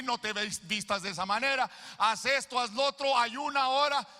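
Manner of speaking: fiery pulpit climax, building to a shout; full-force preaching. Acted. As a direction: preach it to the rafters.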